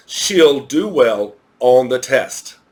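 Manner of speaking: "She'll do well on the test" said slowly and clearly; correct form, slow. Shown as a demonstration. Teacher gives the correct sentence to students, slow and clear. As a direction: model the right sentence slowly. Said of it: "That's not right".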